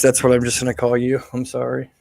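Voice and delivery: usual speaking voice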